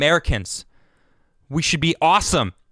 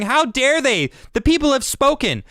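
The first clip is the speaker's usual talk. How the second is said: mocking Democrats' quote; 7 semitones higher than usual. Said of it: "each and every one of you that are saying".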